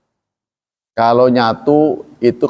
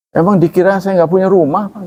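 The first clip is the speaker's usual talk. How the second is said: higher-pitched indignant question; mock offended; 6 semitones higher than usual. Foreigner asked where he lives, mock offended. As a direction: play someone taking offence, lightly hammed up. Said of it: "itu tersinggung".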